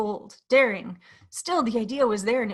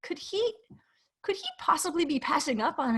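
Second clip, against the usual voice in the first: whispering; 6 semitones higher than usual. A narrator's reading. Peter's sneaking thought.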